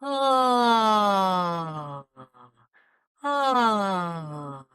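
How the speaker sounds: a long open-throated ah. Shown as a demonstration. Coach demonstrating the open-jaw exercise, sustained ah. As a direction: drop the jaw and let an ah ring out. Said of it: "Drop your tongue".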